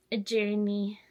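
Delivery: "journey" drawn out in mock imitation; mocking buzzword. Vlogger mimics people online who say "journey", mockingly. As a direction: say "journey" like an online influencer, with distaste. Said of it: "it's a specific way people say journey".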